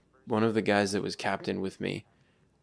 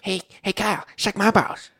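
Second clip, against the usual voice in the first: mock taunt; 11 semitones higher, 6 dB louder than usual. Joking impression of the taunt.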